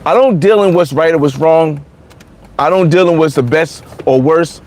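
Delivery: usual speaking voice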